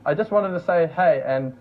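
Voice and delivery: subdued, halting professional thanks; understated business-polite delivery; professional register. Shown as a demonstration. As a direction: pick each phrase carefully, with long hesitations. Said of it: "of a professional level".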